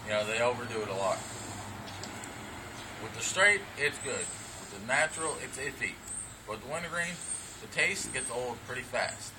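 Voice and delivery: talking around a dip in the lip; lip full of dip. Real, not acted. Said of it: "so I already got my dip in".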